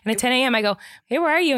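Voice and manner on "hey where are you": calling out. Retold or imitated. Calling the contractor.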